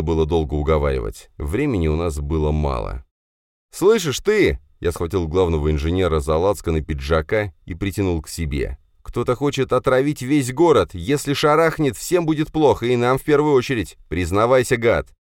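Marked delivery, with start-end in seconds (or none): 3.7-15.1 grab him and threaten, shouting; angry threat. Acted. Hero threatens the engineer. (герой в ярости трясёт инженера и кричит на него)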